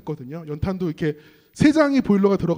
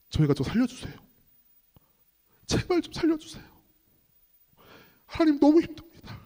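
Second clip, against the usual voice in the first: high, pleading retold prayer; reenacted plea, pitched up; 8 semitones higher than usual. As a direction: plead with God for help, acting it out. Retells his desperate boyhood prayer.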